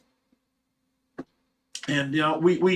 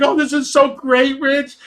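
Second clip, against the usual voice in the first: much higher, gushing with joy; delighted wife; 11 semitones higher, 6 dB louder than usual. Retold or imitated. Wife thrilled by koi swarming her, high delighted gush. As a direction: squeal with delight.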